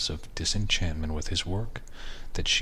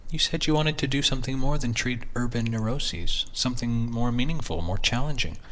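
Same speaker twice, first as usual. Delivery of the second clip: higher, reasoning wife; 5 semitones higher than usual. Acted. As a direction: press him gently as his wife. Wife voiced in a story.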